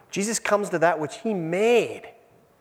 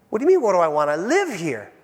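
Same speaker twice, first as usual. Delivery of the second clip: pleading to come home; 4 semitones higher, faster than usual. Retold or imitated.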